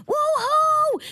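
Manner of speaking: high, gleeful whoop back out the window; excited whoop. Retold or imitated. Answering the neighbors from her window, high excited whoop. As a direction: shout back like a thrilled fan. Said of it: "and I go".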